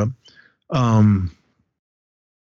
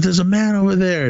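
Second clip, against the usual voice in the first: higher, lightly voiced kid warning; 9 semitones higher than usual. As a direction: pitch up like a little boy pointing. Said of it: "And he goes".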